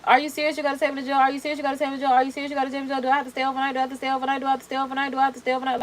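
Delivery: mimicking someone asking on a loop; repetitive questioning. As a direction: run the questions together like a stuck record. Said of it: "it's very repetitive at this point".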